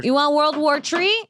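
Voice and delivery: put-on high, rising Jamaican-accented challenge. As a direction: slip into a mock Jamaican accent. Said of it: "you became Jamaican".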